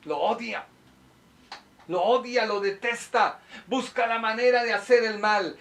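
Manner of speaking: high, insistent denunciation; emphatic preaching. Real, not acted. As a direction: drive each accusation home from the pulpit. Preaches against hatred.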